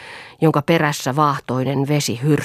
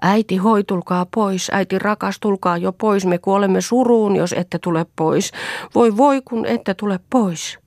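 loud, higher calling across the lake; 5 semitones higher, 3 dB louder than usual. Acted. Children calling their vanished mother back from the lake. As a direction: call her home over the water.

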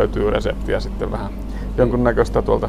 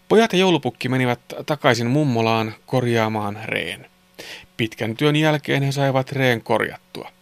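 put-on clear, measured children's story reading; story narration; 3 dB quieter than usual. A narrator's reading. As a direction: narrate a Christmas tale sentence by sentence. Reads a Christmas story. (selkeä joulusadun kerronta)

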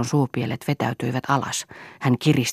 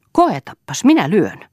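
higher, louder angry warning; angry threat; 6 semitones higher, 7 dB louder than usual. A narrator's reading. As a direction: dare them, punching the words hard. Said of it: "uhkasi Toini vihaisena". (vihaisesti uhaten)

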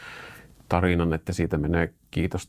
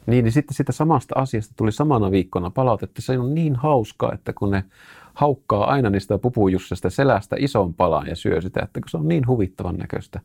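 lively, laughing retelling, higher and louder; amused and lively; 5 semitones higher, 5 dB louder than usual. Real, not acted. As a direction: tell it with real delight, voice lifting. Amused retelling of reader feedback.

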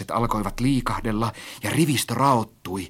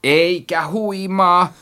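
high, loud, drawn-out denial; contradicting; 8 semitones higher, 5 dB louder, much slower than usual. A narrator's reading. Narrator dismisses friend's dizziness, insistently. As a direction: contradict flatly, stretching it out. Acted quarrel over climbing.

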